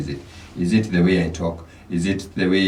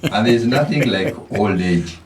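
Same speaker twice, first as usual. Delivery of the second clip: laughing; 3 semitones higher, 4 dB louder than usual. Real, not acted. Laughing after Swahili proverb.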